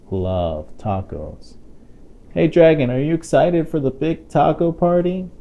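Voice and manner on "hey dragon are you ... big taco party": raised, higher voice calling up to the dragon. Acted. Parent calling out to the book's dragon, raised and bright. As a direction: call out to him like he's far away.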